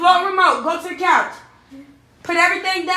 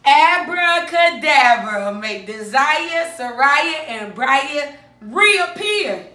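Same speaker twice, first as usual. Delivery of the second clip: slow, drawn-out incantation; playful magician spell to bring the kids back; much slower than usual. Pretend. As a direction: intone it like a stage magician. Performing the magic trick.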